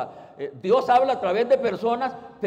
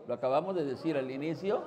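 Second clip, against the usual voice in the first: usual speaking voice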